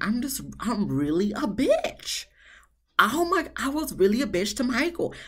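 hammed-up weepy realization; mock tearful confession. Imagined Jasmina watching herself, mock sobbing remorse.

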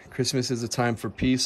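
ordinary talk

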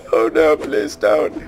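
mock whimpering plea, slow; whiny baby. Gamer mocking himself, whiny baby plea. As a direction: whimper like a scared little baby. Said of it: "cry like a little whiny baby going".

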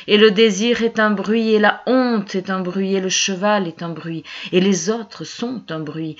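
incantatory litany with a repeating cadence; rhythmic, insistent poetry reading; poem recitation. Acted. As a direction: drive through the list, easing down on each refrain.

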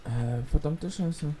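slow muttered curse; cursing under breath. Real, not acted. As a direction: grumble the curse slowly. Game setback, muttered. (leise vor sich hin fluchen)

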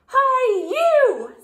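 high, loud grouchy call; grouchy hail. A narrator's reading. Grouchy ladybug accosting the yellow jacket, high and loud. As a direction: call out to pick a fight.

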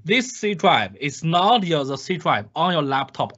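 second, calmer emphatic repeat; repeated emphasis. Shown as a demonstration. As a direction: stress on "this" and "not" in "this C drive is not your". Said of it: "Emphasize again".

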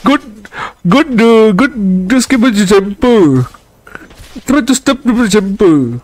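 lively put-on Indian accent. Malay gamer clowning for viewers, put-on Indian accent. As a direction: play it up in a mock Indian accent. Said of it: "I can do, uh, Indian accent".

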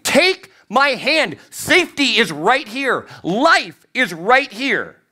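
high, slow pleading call; pleading rescuer. Retold or imitated. Helicopter rescuer begging the dangling person, high and slow. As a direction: stretch each word out to the one dangling. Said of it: "the person in the helicopter is saying".

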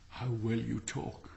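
slow, soft, drowsy praise; sleepy admiring wife. Acted. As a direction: murmur it half asleep. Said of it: "said the miller's wife".

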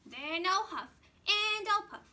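loud, booming wolf threat. Acted. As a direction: boom it out like the big bad wolf. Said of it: "said the big bad wolf".

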